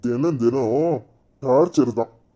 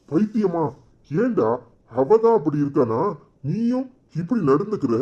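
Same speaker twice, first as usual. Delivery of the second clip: scolding friend; 5 semitones higher than usual. Acted. Friend scolds him for rudeness.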